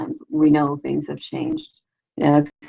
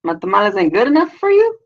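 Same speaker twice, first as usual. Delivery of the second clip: louder, higher challenge as an affronted nana; gangsta nana; 4 semitones higher, 4 dB louder than usual. Retold or imitated. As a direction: confront them like a tough grandmother, imitated. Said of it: "Nana's getting gangsta on me".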